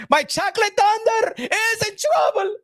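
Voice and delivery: hammed-up crying wail; mock wail. Promoter fretting over his fighter, hammed-up wail. Repeated panicked line, cries out.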